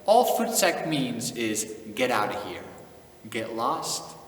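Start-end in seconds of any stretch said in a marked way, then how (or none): none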